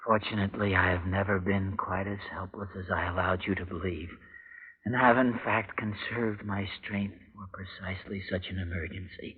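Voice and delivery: reading out the uncle's letter, quiet and measured. Acted. Reads uncle's letter aloud.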